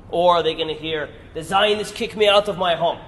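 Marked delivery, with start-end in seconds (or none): 1.3-3.0 lightly put-on Arabic accent, a touch raised; a quick, half-hearted Arabic accent; poor Arabic accent. Speaker voicing an opponent's story in a mild Arabic accent. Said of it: "Pardon the poor Arabic accent".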